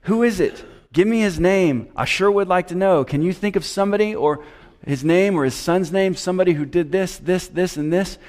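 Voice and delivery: urgent questioning. Acted. Preacher voicing Agur demanding to know who it is, urgent. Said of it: "hear the urgency in his voice".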